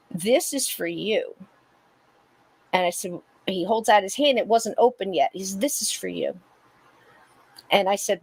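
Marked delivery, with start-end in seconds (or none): 5.6-6.4 a breathless whisper; soft ghostly whisper. Retold or imitated. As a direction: breathe the words as a spirit would. Ghost's words retold, whispered.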